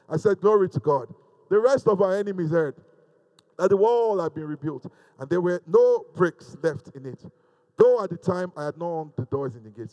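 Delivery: loud, emphatic sermon delivery; forceful preaching. Real, not acted. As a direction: drive each phrase home loudly.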